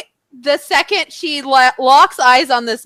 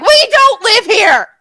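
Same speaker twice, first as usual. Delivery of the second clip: slow, higher half-shout; retold yell; 8 semitones higher, 4 dB louder, slower than usual. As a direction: yell it at the clueless guy. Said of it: "I yelled at him".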